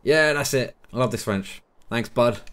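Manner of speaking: light put-on American accent. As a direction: voice him as an easygoing American. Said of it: "gone into some sort of weird American accent with him".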